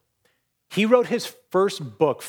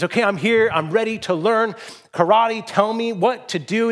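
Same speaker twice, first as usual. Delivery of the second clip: higher-pitched, mildly eager delivery; eager pupil; 6 semitones higher than usual. Acted. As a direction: voice an eager student ready to start. Eager pupil reporting for lesson.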